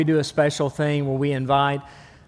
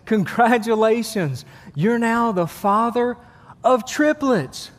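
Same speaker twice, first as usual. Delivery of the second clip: nurse announcing; 5 semitones higher, slower than usual. Acted.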